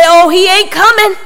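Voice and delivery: casual AAVE phrasing, voiced lightly; African American accent. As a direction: drop into a light Black vernacular for one line. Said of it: "pardon my ebonics".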